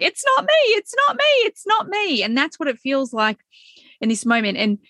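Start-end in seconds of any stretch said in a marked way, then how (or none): 0.0-2.2 put-on much higher, fast frightened girl voice; high, fast, pleading denial, imitating a girl; panicked Alice. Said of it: "she's like".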